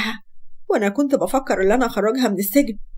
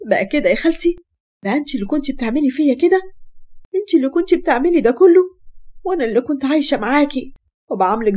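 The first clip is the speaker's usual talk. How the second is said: higher and louder, betrayed and rising to a cry; hurt furious accusation; 4 semitones higher, 3 dB louder than usual. Acted. Laila confronts her aunt who harmed her, hurt furious accusation. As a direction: throw it at her like a curse.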